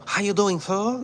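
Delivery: put-on high-pitched caricature of an Asian accent; put-on, stereotyped Asian accent; mock Asian accent. Imagined waiter greeting a customer, mock Asian accent. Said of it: "no accent, no, no".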